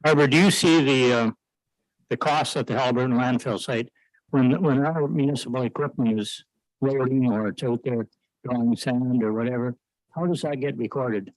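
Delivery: muffled voice, as if behind a hand. Real, not acted. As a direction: speak with your mouth half covered. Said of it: "your question was a little muffled there".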